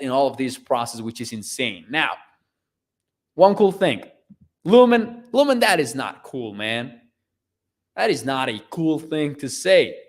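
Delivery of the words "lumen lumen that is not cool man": mock scolding. Mock scolding a chat viewer.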